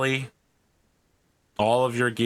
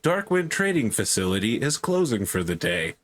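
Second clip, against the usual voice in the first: automated announcement voice; 5 semitones higher than usual. Acted. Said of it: "an automated voice that's like".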